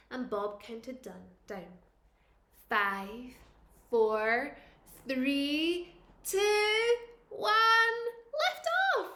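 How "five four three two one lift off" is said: building countdown. A narrator's reading. Teacher counting down a rocket launch, building excitement. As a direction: count down, building to a loud lift off.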